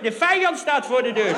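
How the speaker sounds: the enemy is at the door, yelled; mock shout. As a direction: shout the alarm like a panicked young guard.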